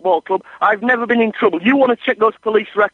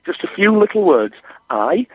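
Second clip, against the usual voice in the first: forced calm; 4 semitones lower than usual. Acted. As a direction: spell it out with strained calm. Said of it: "I'll say it calmly".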